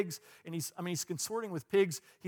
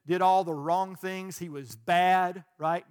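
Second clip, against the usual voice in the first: hammed-up disapproving "bad", slow and loud; tut-tut over the bad son; mock scorn; 6 dB louder, slower than usual. Mocking the prodigal as bad.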